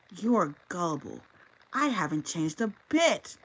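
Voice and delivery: slow, vindictive sneer. Acted. Tanessa drops her sweet act on the king: slow vindictive gloat. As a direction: let the mask drop and gloat, slowly.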